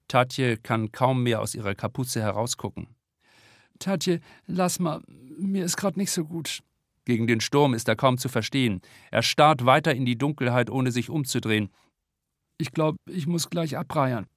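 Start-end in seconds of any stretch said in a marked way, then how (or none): 3.8-6.6 seasick. A narrator's reading. Seasick boy answers weakly. 12.6-14.3 seasick. A narrator's reading. Seasick boy about to vomit.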